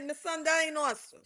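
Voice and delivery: put-on quick, hushed Virgin Islands accent slipping out; her Virgin Islands accent. To a friend about Miss Sun, in a Virgin Islands accent. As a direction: let the Virgin Islands accent come through fast. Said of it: "sorry, my accent".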